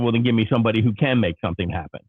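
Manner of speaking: fast, pushy demand for a supervisor; mild mock yell, pressing; retold angry demand. Caller demanding escalation from the agent, fast and pushy. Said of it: "I yelled and screamed".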